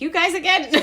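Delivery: put-on high, loud playful groan at old friends; mock exasperation. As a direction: toss it out like a fond complaint. Mock exasperated at familiar faces.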